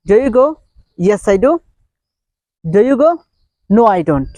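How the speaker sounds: animated demonstration of asking and answering; acted-out question and answer. Shown as a demonstration. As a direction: act out both sides of the exchange. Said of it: "try to act like this".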